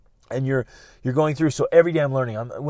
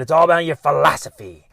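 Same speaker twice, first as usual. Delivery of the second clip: louder, emphatic quoting of a mentor; Jim Rohn; 2 semitones higher, 8 dB louder than usual. Retold or imitated. Quoting a teacher on life philosophy, loud and emphatic. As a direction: punch out "philosophy" with force. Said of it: "That's how he said it".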